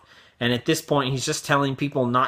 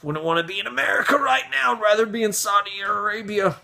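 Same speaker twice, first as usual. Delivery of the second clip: mock foreigner; 5 semitones higher than usual. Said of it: "other countries ... going".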